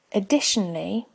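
ordinary delivery

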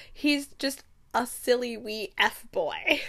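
slow, full-voiced put-down; slow dismissive quote. Thane dismissing a rival to Reagan, slow and full-voiced. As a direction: draw it out as a dismissal.

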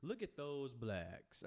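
very slow, stretched words, "blacks" drawn out; drawn-out retake. Shown as a demonstration. Retrying the phrase for the co-host, "blacks" slowly stretched out. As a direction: ease through it slowly, lengthening "those" and "blacks". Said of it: "Let me change the word".

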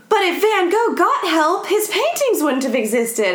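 mocking neurotypical people. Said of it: "neurotypical things that people say".

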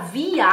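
"via" ending in an open A, no R; "via" with a clear final A; standard German pronunciation. Shown as a demonstration. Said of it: "fale com som de A".

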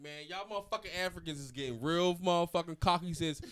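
mock-angry tirade, building to a yell; hammed-up threatening outburst; imitated rant. Imitates friend ranting at jitney driver.

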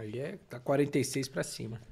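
talking while eating; mouth full. Real, not acted. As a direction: talk through a mouthful of food. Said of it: "Por que que você não come olhando pra câmera?".

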